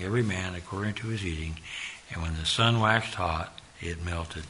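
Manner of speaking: steady Bible reading voice; scripture reading. Acted. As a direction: read the verses with weight. Reads scripture aloud.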